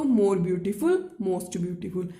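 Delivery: deliberate, drawn-out example; a teacher slowly modeling the comparative. Shown as a demonstration. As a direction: say it very slowly for students to copy. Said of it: "देखिए, ब्यूटीफुल".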